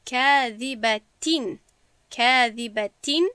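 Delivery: کاذبتین slowly, ending in a clearly sounded n; clear final nun. Shown as a demonstration. Teacher models izhar tanwin for students, clear final nun in کاذبتین. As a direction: recite کاذبتین with the tanwin fully pronounced as n. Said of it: "واضح تلفظ کنیم، با نون تلفظ کنیم".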